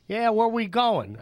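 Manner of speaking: playful impression of Ernie; Ernie voiced. Ernie voiced in retold story.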